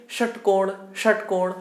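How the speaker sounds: "षटकोण," with tongue curled up for the first sound; retroflex sha. Shown as a demonstration. Teacher asking students to say the retroflex, curled-tongue "षटकोण,". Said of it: "मूर्धन्य बोल करके देखिए".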